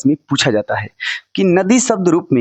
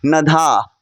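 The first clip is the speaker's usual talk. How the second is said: slow drill; much slower than usual. Shown as a demonstration. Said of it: "बोलो नधा".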